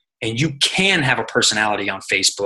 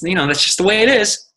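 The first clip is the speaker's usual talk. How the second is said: resigned mom; 7 semitones higher than usual. Retold or imitated. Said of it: "And she says".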